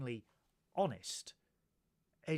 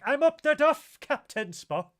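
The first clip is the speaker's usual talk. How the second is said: high, loud comic proclamation; mock announcement; 12 semitones higher, 12 dB louder than usual. Acting out the whale's announcement.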